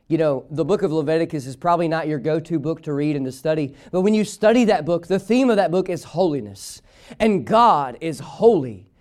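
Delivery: ordinary delivery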